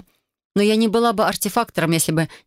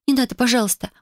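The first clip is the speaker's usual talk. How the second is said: higher, begging please; pleading; 6 semitones higher than usual. Acted. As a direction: plead anxiously with the handle. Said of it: "взмолилась я". (умоляюще, чуть выше)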